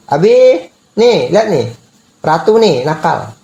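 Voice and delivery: mock mother calling dad over; tattling to dad. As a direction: tell on the naughty child, calling out. Mother reporting child to father.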